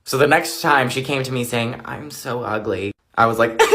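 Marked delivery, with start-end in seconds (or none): 1.8-2.9 soft, slow self-pity; mock a friend fishing for compliments; attention-seeking. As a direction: drag it out quietly, feeling sorry for yourself. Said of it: "trying to get everyone's attention".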